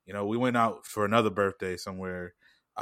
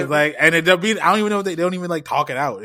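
laughing; 7 semitones higher, 9 dB louder than usual. Real, not acted.

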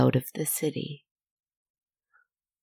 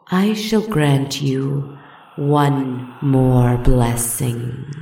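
slow serpent voice; much slower than usual. Acted. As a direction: draw it out like an ancient beast. The worm voice speaking.

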